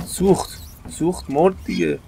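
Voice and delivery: high gleeful cry; excited. Real, not acted. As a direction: cheer it burning. Enemy burning.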